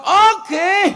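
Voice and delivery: high, loud okay; eager okay. Pretend. Preacher imagines answering the stranger, high and loud. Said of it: "ya tak jawab".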